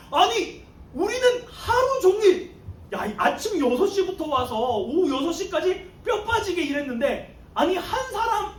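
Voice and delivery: a worker venting his outrage; indignant complaint. Retold or imitated. All-day workers protesting to the owner, indignant. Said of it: "불평불만하고 막 그 삿대질을 하면서".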